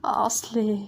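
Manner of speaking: slow unvoiced whisper of a coaxing question; hushed and slow, drawing her out. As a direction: breathe the words out gently, coaxing. Hesitant confession, probed gently.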